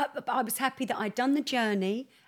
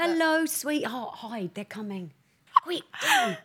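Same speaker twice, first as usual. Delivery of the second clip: put-on higher, slow sing-song call to a child; mock warning call; 7 semitones higher, slower than usual. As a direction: play the urgent chant from the pool game. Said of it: "I remember going".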